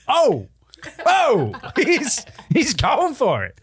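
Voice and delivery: high, laughing disbelief. Real, not acted. Host reacting to the AI sex chat, laughing high. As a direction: crack up mid-sentence.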